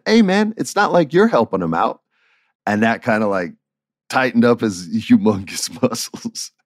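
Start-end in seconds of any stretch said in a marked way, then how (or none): 0.1-2.0 retold challenge. Retold confrontation with John.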